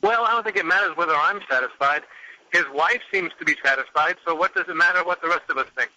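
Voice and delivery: thin phone line sound; radio show caller. Real, not acted. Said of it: "joining us on the phone now".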